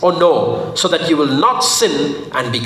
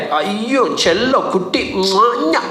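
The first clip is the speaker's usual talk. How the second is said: put-on baby talk; 4 semitones higher than usual. Cooing endearments at a baby.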